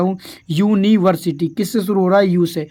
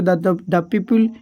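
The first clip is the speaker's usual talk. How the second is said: slow dictation; much slower than usual. Shown as a demonstration. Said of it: "इसका सही answer क्या होगा".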